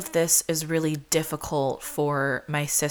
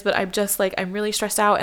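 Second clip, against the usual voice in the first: higher-pitched imitation of a stressed friend; quick, raised pitch, mildly acted apology; apologetic friend; 5 semitones higher, faster than usual. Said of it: "my friends are really apologetic".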